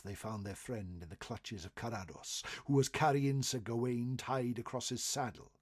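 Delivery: usual speaking voice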